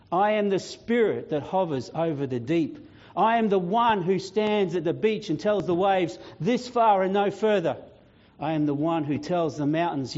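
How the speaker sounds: measured, building proclamation with weighty pauses; dramatic declamation. Acted. Jesus answers Death's question who he is, dramatic declamation. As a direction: declare it like a divine announcement.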